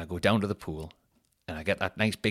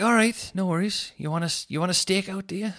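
higher, sarcastic challenge; imitating his own vow of revenge; mock defiance; 11 semitones higher than usual. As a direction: put on a cocky challenge. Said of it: "I was like".

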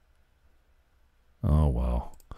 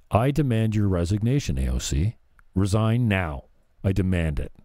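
a hammed-up stern demand; mock forceful demand. Shown as a demonstration. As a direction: push it like a pompous senator. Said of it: "See how that didn't work?".

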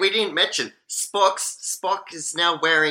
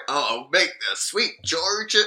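mock Southern gentleman's accent. Co-host mimics McCoy offering a drink, mock Southern accent. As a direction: put on a playful Southern accent. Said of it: "why does he get so southern".

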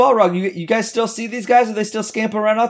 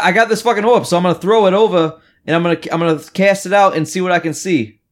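in-character Vasilius; faster than usual. Acted. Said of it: "And so then he moves up".

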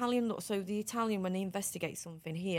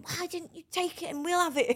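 imitating indignant friends, high and loud; high-pitched, loud retold scolding; mock outrage; 12 semitones higher, 5 dB louder than usual. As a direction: play at being mad at someone. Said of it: "the girls would go mad with me".

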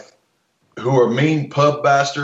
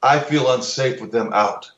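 mock prissy claim. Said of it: "surreptitiously says".

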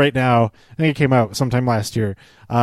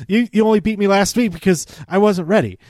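higher, quick retold protest; mock upset; 6 semitones higher, faster than usual. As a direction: imitate a sore loser's hurried excuse. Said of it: "he's really upset".

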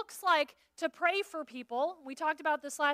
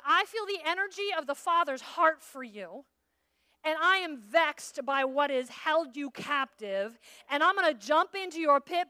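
fervent preaching; 2 semitones higher, 5 dB louder than usual. Acted. Preaching, rising fervor.

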